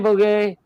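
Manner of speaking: Boguet as bo-GAY, high and coaxing; French pronunciation. Shown as a demonstration. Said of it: "Come on, say it".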